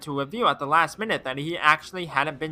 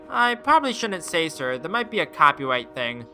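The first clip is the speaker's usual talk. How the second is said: put-on eager kid. Eager boy passenger answering the detective. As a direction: play an excited young boy.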